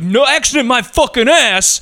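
high, slow angry snarl; hammed-up rage at her excuse; mock furious yell. Angry driver rejecting her apology, hammed-up yell. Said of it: "he's fucking so pissed at her".

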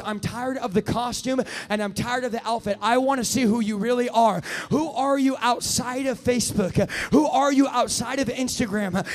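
God's voice. Acted. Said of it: "God goes".

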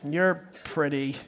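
low, slow, quiet forced compliment; sulky kid complying under orders; grudging child. Acted. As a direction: squeeze out a reluctant compliment. Child forced to say something nice.

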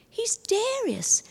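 slow whisper, "Darius" as TEH-ree-us; Romanian pronunciation, whispered. Retold or imitated. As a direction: breathe "He's Darius" slowly with the stress up front on TEH. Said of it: "We would say Darius".

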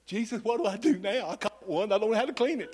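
hushed mock-bewildered aside; whisper-soft comic panic, laughing at the end; helpless inner prayer. Preacher recalling his first convert, a quiet comic plea.

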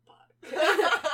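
slow, forceful voiceless whisper; stunned mock whisper. Boyfriend learning it was a prank, stunned whisper. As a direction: whisper it in disbelief, half laughing.

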